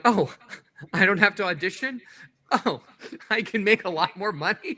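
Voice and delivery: amused, put-on wonder; mock pleasant surprise. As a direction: play a delighted discovery, half laughing. Acts out his delighted career realization.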